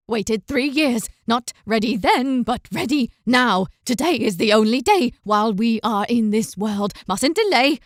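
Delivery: lightly voiced mad old man, urgent; crazed old father. Father explaining the ritual to Una, manic and urgent. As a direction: mutter it like a man obsessed.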